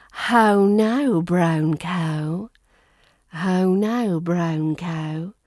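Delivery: rounded RP glide on "How now, brown cow"; RP ow sound. Shown as a demonstration. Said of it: "That ow sound is such an R P British".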